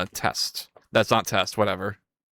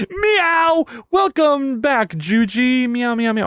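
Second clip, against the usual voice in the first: high, loud cat-voice greeting; cutesy cat voice; playful meowing; 10 semitones higher, 4 dB louder, slower than usual. Pretend. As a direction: meow at the returning viewer. Greeting viewer cat-style.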